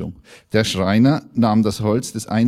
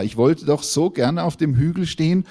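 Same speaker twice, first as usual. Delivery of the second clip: higher-pitched, plaintive complaint; storybook wail, pitched up; wailing lament; 6 semitones higher than usual. Acted. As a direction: lament it with rising longing, then drop at the end. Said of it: "jammerte der Baum".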